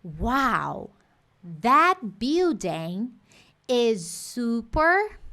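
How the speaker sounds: very slow awed "Wow, that building is super."; admiring wow. Shown as a demonstration. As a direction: draw it out in wonder. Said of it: "eu vou virar e falar assim".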